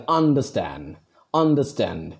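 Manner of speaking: "understand" with force on "stand"; stress on last syllable. Shown as a demonstration. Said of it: "So I give force on stand".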